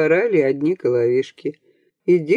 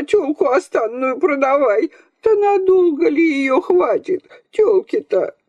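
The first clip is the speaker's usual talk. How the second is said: put-on much higher scolding old woman; grandmother shouting; 9 semitones higher than usual. A narrator's reading. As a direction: berate him shrilly from the bed. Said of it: "с кровати кричала".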